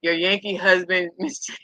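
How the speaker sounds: breaking up with laughter while quoting; laughing. Real, not acted. Vlogger repeating what she called her husband, laughing. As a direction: say it through giggles, pitch climbing. Amused quoting of a woman's nickname.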